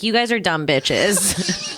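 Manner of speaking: slow, low, laughing; mock Jeremiah drawl, laughing; Jeremiah impression. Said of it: "that is the way to be like".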